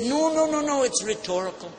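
high, hurried mock panic; flustered backpedal. The old man backing down from the angry preacher, mock panic. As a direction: play the man backing down fast. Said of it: "He said".

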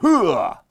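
loud, high "hooah" burst; troll's leaping shout. Acted. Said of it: "like that".

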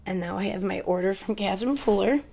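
ordinary talk, nothing marked

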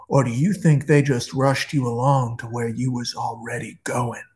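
lightly voiced old guard, half-whispered menace; old man's voice. Old guard in hell speaks.

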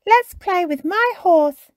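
high, loud, slow invitation to play; eager child character pitched well up; Peppa, eager. A narrator's reading.

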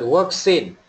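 "works in" pronounced like "work scene"; linked works in. Shown as a demonstration. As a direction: model "work-sin" as one word, falling at the end. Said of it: "repeat after me".

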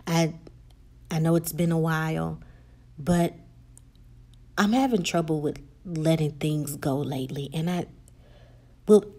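subdued voicemail, low with halting pauses; lightly acted, understated swallowed tears; holding back tears. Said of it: "she's controlling tears and holding them back".

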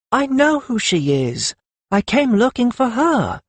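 high-pitched woman's voice; imagined interjection, pitched high; Lettuce's protest. A narrator's reading. Lettuce about to tell Karun she knows Perry, high.

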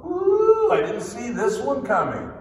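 mock panic, squealed high ooh; mock startled God voice; mock panicked God. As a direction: play God caught off guard, hammed-up. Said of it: "God's not up in heaven going".

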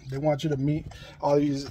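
winded after running deliveries; out of breath. Real, not acted. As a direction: talk between breaths. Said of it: "when I'm not out of breath".

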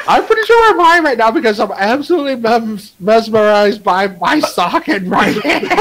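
stoner. Acted. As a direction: read it like you're baked. Rereads card as a stoner.

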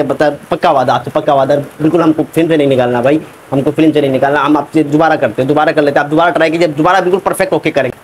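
grovel so he won't be thrown out; pleading actor. Acted. Actor begging the director to keep him in the film. Actor begs not to be fired.

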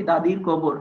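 "দাদির কবর" as its own unit with a pause after; phrase then pause. Shown as a demonstration. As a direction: say "দাদির কবর" in one breath, then stop. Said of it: "একটু থামি". ("দাদির কবর" এক প্রয়াসে বলে থামা)

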